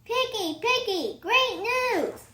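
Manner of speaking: high pleased news to his friend; delighted. Acted. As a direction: happily announce the good news.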